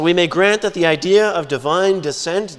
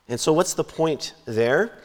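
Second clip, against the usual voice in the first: usual speaking voice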